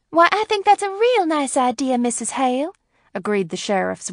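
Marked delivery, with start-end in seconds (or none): 0.1-2.7 high-pitched, eager agreement; glad agreement. A narrator's reading. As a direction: agree gladly, well up in pitch. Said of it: "as if she too were glad".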